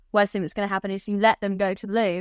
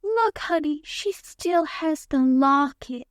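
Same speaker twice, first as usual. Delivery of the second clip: mock poor and humble, laid on thick; lightly voiced scheming parent, syrupy and overdone; overplayed humble con artist; 4 semitones higher, slower than usual. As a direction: ham up the fake humility. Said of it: "Overplaying it so much".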